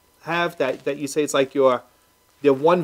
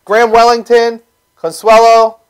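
loud, raised-pitch radio host welcome; show host opener; 6 semitones higher, 10 dB louder than usual. Real, not acted. Radio host bringing back the show and guests, loud hype. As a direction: welcome listeners back with full-voiced energy.

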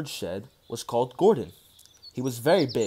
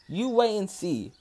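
slow, higher, knowing; confident reply; 6 semitones higher than usual. A narrator's reading. Driver reassures Gordon, slow and a bit higher. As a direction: promise it calmly. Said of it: "said Edward's driver".

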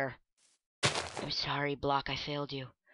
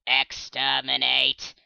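Dalek voice; 2 semitones lower, much slower than usual. Acted. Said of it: "I'm a Dalek".

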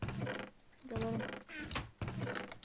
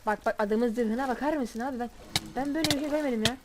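shocked disbelief; 5 dB louder than usual. Real, not acted. Shocked at enemy armour.

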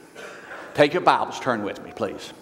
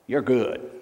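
laughing. Real, not acted.

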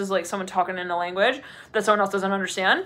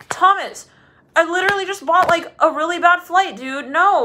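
upset traveller; 8 semitones higher, 4 dB louder than usual. Retold or imitated. Telling friend about bad flight.

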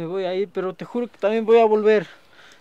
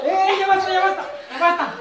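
raised, higher stop-it call; 6 semitones higher than usual. Acted. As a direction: break up the fight. Hijo detiene la pelea. (gritando que paren)

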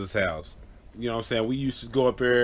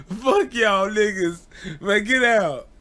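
annoyed; 9 semitones higher, slower than usual. Retold or imitated. Angry scared cousin retold.

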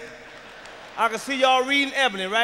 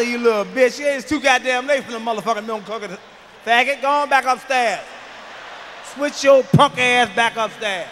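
mock angry scolding; 5 dB louder than usual. Comedian replaying how he yelled at the boy, mock angry. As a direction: bark him back upstairs. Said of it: "That's how I talk to him".

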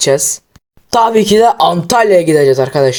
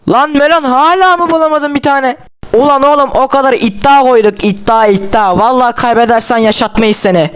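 impatient yelling; 6 semitones higher than usual. Acted. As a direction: call him out, half joking, half threatening. Friends yelling at Melon over bet.

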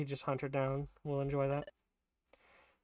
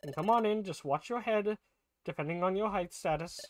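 a high, eager welcome; excited character voice; 6 semitones higher than usual. Acted. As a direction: introduce yourself with gusto.

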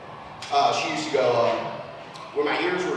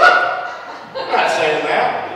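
laughing; 6 semitones lower, much slower than usual. Real, not acted. Laughing denial, slow.

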